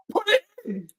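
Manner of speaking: high, loud yelling at the screen; frantic shouting; loud urging. Real, not acted. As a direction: scream at the striker to score. Urging team to score.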